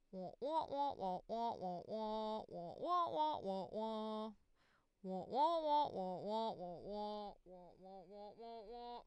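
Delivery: loud rhythmic wah wah wailing; fake baby crying. Baby crying noise for audition.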